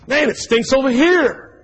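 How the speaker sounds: high, slow grossed-out whine; disgusted complaint. Retold or imitated. Man pacing the house, grossed out. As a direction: wrinkle your nose at it. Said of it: "walked over here and goes".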